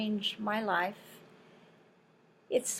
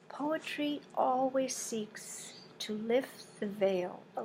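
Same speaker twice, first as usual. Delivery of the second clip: poetic reading; 5 dB quieter than usual. Acted. Reads her essay aloud.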